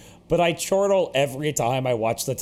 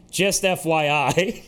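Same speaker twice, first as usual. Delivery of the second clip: deadpan quote; slower than usual. Retold or imitated. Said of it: "then he pauses and goes".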